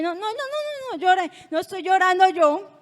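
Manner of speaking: negación insistente. Retold or imitated. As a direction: protest it in rising pitch, insisting. Negando que llora ante su hermana. (negación insistente, más aguda)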